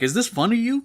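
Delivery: sharp, high angry snap; angry shark demon. Retold or imitated. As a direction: confront him, offended and furious. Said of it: "Starts getting really angry at him".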